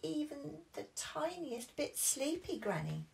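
high whiny protest; high childish protest; protesting Peppa. Acted. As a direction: insist you are not sleepy. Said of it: "said Peppa".

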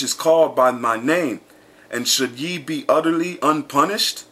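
measured, declaiming scripture reading. Acted. Preacher reading verses to his listeners, declaiming. Reads Jeremiah aloud to congregation.

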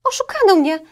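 put-on high, loud girlish echo. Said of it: "szepnęła dziewczynka".

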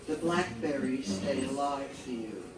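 measured poetry recital, each phrase set apart by pauses; solemn poem read aloud to an audience. Acted. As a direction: read it as verse, line by line, each ending falling. Reads own poem aloud.

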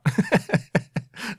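short, high-pitched real laugh; amused chuckle. Real, not acted. Quiz host laughing at his own fake answer, amused chuckle. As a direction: chuckle at your own joke.

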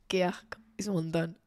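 whisper. Real, not acted. Disgusted aside.

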